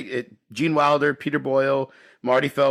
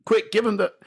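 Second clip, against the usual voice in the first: frantic; 5 semitones higher than usual. Retold or imitated. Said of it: "unable to complete a sentence".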